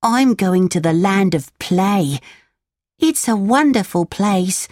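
put-on excited boy voice. Lampwick voiced in story.

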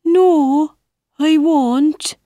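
high, fussy caterpillar voice; a prim little bug answering back. Acted.

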